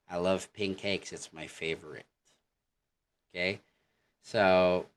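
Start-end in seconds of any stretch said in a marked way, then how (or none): 0.1-2.1 plain American "I love pink cakes. It's my favorite."; American accent. Shown as a demonstration. Teacher contrasting the American way to say favorite. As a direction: say it the American way, no lift. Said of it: "in American".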